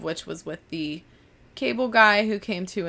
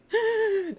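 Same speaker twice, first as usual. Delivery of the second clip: imitated post-cry sniffling gasp; high, sudden mock sob intake; phantom crying gasp; 14 semitones higher than usual. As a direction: catch the breath like leftover crying. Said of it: "I'll do the phantom".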